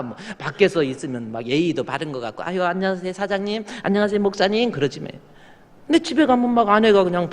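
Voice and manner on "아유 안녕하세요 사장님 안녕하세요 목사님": fawning greeting. Retold or imitated. Acting overly polite greetings.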